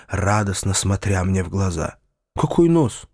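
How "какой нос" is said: rising, baffled questions; genuinely confused; puzzled surprise. Acted. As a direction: narrator asking the landowner, puzzled. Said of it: "спросил я в удивлении".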